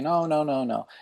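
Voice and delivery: high quick string of nos; imitating a nurse waving it away; dismissive nurse. Nurse brushing off the question.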